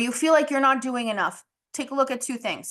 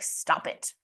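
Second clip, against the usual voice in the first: whispered stern stop; hushed self-scolding; 6 dB quieter than usual. Retold or imitated. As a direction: quietly tell yourself off. Scolding herself in her head.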